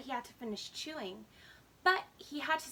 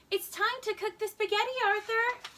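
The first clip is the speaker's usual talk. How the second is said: higher, louder call from another room; 6 semitones higher, 5 dB louder than usual. Acted. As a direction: call the boy to the kitchen. Mother calling from afar.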